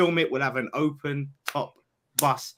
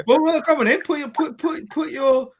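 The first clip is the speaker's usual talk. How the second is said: laughing taunt; 12 semitones higher, 7 dB louder than usual. Real, not acted.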